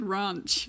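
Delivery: "ranch" with a long, open ah vowel; British-sounding ranch. Retold or imitated. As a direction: draw out "ranch" as "rahnch". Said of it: "you went British".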